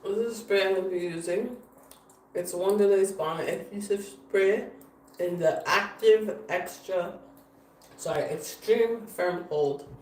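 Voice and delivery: talking around ice in the mouth; mouth full. Real, not acted. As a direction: speak with ice in your mouth. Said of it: "I'm eating one of these and have ice in my mouth".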